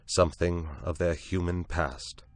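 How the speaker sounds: ordinary delivery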